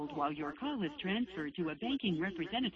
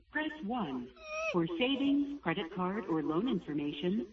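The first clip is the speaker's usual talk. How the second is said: phone menu voice. Real, not acted. Automated bank phone menu.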